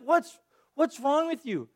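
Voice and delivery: slow, incredulous "What's, what's wrong with you?"; exasperated disbelief. Retold or imitated. Pastor voicing his reaction to the Israelites, incredulous. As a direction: drag out "What's" in mock disbelief. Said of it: "that's always been part of my reaction".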